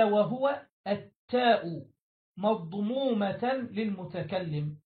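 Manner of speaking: slow, measured recitation of a classical text; reciting the grammar text. Shown as a demonstration. Teacher reciting the rule to his students, slow and measured. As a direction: read each word out slowly as set text. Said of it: "ثم قال".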